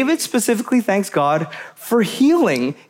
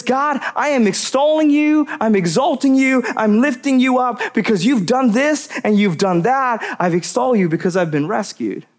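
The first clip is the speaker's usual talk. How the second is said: fervent David; 3 semitones higher than usual. Retold or imitated. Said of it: "He says".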